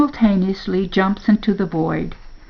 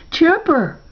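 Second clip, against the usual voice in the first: high cry of the name; desperate calling; 10 semitones higher than usual. A narrator's reading. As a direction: call out as he slips from your grip. Losing hold of dog.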